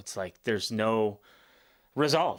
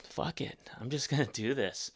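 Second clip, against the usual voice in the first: soft whispered quote; whispered resignation; 7 dB quieter than usual. Retold or imitated. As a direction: breathe it out, resigned. Retelling giving up on fear.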